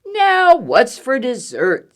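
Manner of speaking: hungry bear. Acted. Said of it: "said the bear".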